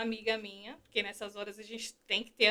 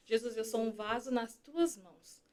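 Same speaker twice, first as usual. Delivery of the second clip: soft prayer; 7 dB quieter than usual. Retold or imitated. Prays after the hymn.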